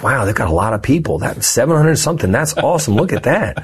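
naive amazement. Retold or imitated. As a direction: marvel like an impressed newcomer. Retells his naive amazement at board.

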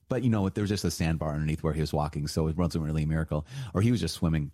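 deadpan mock-serious, tongue in cheek; sarcasm. Teacher mocking sandbar theory, dry sarcasm. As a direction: play along with the skeptics, dry and knowing. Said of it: "done with the sarcasm".

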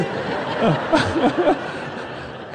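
airy high laugh; high breathy laugh. Real, not acted. Preacher laughing at the end of his story, high and airy.

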